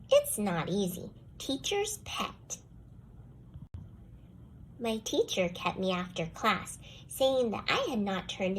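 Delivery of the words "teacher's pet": sing-song it up high and slow; a high, slow, teasing taunt; high mocking refrain. A narrator's reading. Child narrator mocks the dog in a high, slow refrain. Jealous refrain repeated again.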